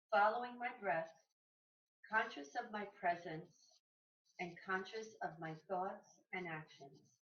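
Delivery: measured, deliberate reading with phrase pauses; each phrase set apart, falling away at the ends; reading aloud. Real, not acted. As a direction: read a mindfulness passage aloud, unhurried. Reads a passage aloud.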